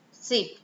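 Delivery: "seep" with a plain hissed s, no sh; s replacing sh. Shown as a demonstration. Teacher showing a learner error, "seep" with s for sh. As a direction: say "seep" with s where sh belongs. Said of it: "you are making consonant errors".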